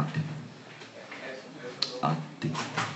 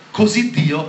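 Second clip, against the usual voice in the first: preach; 7 semitones higher, 6 dB louder, slower than usual. Real, not acted.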